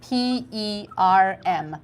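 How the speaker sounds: P E R M spelt letter by letter, slowly; spelling out. Shown as a demonstration. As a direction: spell perm out slowly for the class. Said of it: "I'll write it here".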